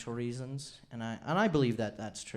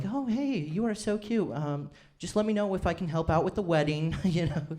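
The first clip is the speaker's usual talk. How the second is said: higher, gushing grandma; 3 semitones higher, 5 dB louder than usual. Retold or imitated. Grandma gushing at grandson's girlfriend, higher voice. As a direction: gush like a doting grandma. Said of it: "my grandma was like".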